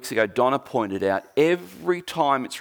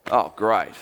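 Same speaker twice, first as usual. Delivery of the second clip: laughing dismay; 3 semitones lower than usual. Retold or imitated. Parents realise they lost Jesus.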